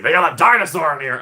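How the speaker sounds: a hint of a startled Indy spotting the dinosaur. Indy spotting a dinosaur on the ride, mock surprised. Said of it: "He's like".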